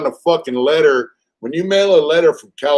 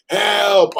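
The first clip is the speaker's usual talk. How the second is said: higher mock cry of help; mock yell for help; 7 semitones higher than usual. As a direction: imitate his cry, half-hearted. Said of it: "every time he would say".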